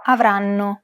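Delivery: "Avranno" with every syllable given roughly equal time; syllable-timed rhythm. Shown as a demonstration. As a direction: say "Avranno" evenly, syllable by syllable, holding the first n. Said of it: "each syllable is pronounced for roughly the same amount of time".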